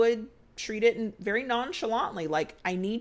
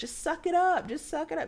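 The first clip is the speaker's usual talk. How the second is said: put-on high, mean-girl voice; 8 semitones higher than usual. Describing the inner voice that told her to power through, mean girl voice. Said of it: "the mean girl voice would go".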